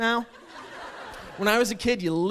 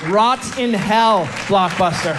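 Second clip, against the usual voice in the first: furious rant; 3 semitones higher, 6 dB louder than usual. Acted. Ranting at Blockbuster.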